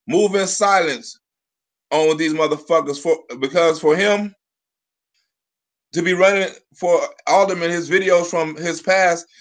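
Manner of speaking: halting reading with pauses and restarts; stumbling read-aloud. Real, not acted. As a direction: read it out haltingly, tripping between phrases. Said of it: "I'm reading like I'm fucked up".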